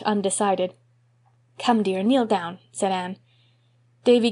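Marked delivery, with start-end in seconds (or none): 1.6-2.6 gentle coaxing. Acted. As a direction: coax a child kindly. Anne coaxes Davy.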